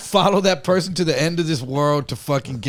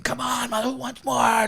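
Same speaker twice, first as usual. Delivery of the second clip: higher-pitched, drawn-out dare; mock taunting challenge; 11 semitones higher, slower than usual. Attacker daring the group before macing them, mock taunting. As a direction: imitate a challenger egging everyone on.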